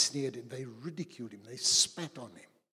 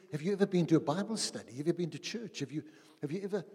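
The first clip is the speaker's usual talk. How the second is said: fast, pressing questions, pitch raised; rapid grilling; 4 semitones higher, much faster than usual. Acted. Angel quizzing the thief in heaven, fast and high.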